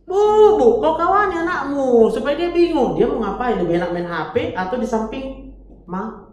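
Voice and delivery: put-on high, loud whiny child voice; child pleading. Child whining at mother who plays with phone. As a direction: whine to mom like a kid.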